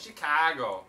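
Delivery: "Chicago" in a mock local accent; hammed-up Chicago twang; ironic Chicago accent. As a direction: lean ironically on the Chicago vowel. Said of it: "I say it ironically".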